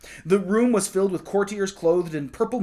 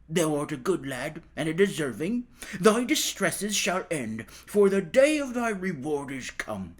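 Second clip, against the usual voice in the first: lightly voiced dwarf. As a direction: speak like a gentle fairy-tale dwarf. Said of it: "appeared to him suddenly and said".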